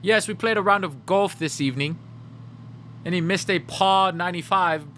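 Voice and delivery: lightly voiced posh golfer; mock posh golfer. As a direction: brag about golf like a pretend aristocrat. Posh rich golfer act.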